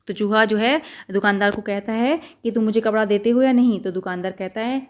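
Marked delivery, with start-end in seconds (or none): 2.5-3.8 pushy demand. Acted. Mouse demands again.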